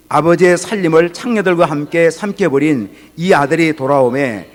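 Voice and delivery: slow, solemn Bible reading; scripture reading. Acted. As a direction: read the verses slowly and weightily. Reads scripture aloud. (느리고 엄숙한 성경 봉독)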